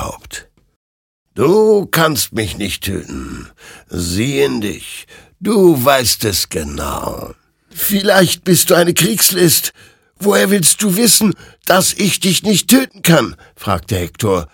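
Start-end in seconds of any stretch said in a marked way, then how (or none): 1.3-7.3 high, slow, looming spirit voice, only lightly put on; a hint of an ominous ghost rider; lightly voiced ghostly creature. Ghostly rider reveals itself to Hektor, lightly ominous. 7.7-13.3 higher and louder, tense and scared; frightened challenge. Acted. Hektor challenges the creature in frightened defiance.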